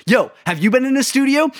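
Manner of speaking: high, bouncy imitation of a buddy's hopeful ask; hammed-up buddy asking about the studio; mock eager question. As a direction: act out your friend asking, half-joking. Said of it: "you just turn around and go".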